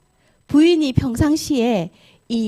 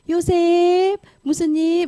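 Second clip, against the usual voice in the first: higher, drawn-out call acted for the wife; calling Joseph coaxingly; 7 semitones higher, much slower than usual. Wife calls Joseph in the empty house, coaxing. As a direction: draw out the name to lure him.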